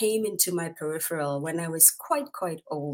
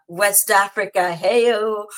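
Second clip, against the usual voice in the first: cheering; 3 semitones higher, 9 dB louder, slower than usual. Real, not acted. Host hyping Ghana and West Africa, loud cheering. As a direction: whip up the crowd.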